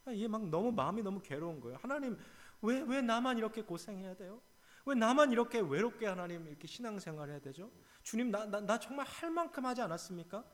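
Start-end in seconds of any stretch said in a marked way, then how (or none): 1.8-10.4 high, loud, whining cry to God; complaining outcry. Acted. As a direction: pour out the grievance at full voice. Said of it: "푸념이 섞인 외침".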